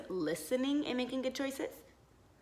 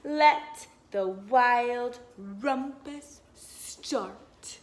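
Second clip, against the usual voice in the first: excited cry; 4 dB louder, much slower than usual. Acted. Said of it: "cried Max".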